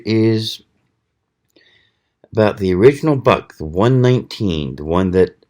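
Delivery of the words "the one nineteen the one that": hiccuping mid-sentence; words broken by a hiccup. Real, not acted. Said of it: "I'm hiccuping here".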